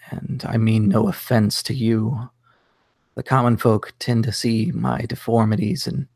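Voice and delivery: lightly voiced raspy knight; a hint of a deep, rasping knight. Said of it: "says in this kind of deep, raspy voice".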